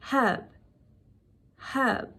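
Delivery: "herb" as one clear British syllable, HURB; British pronunciation. Shown as a demonstration. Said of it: "British English that might be possibly pronouncing wrong".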